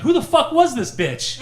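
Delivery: high, loud mock indignation; imitated outrage. Dad reacting to the insult on the phone, imitated outrage. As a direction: burst out like an offended dad.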